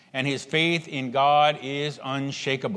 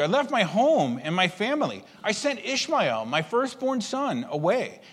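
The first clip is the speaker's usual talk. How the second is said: aggrieved pleading; 5 semitones higher than usual. Retold or imitated. Abraham listing his sacrifices.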